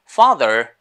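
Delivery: father with an American r at the end; American pronunciation. Shown as a demonstration. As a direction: say "father" the American way, ending on a sounded r. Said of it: "is in American English".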